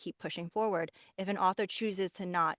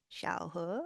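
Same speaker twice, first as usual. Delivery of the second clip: mother's voice; 6 dB quieter than usual. Shown as a demonstration. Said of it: "and then also Mandarin".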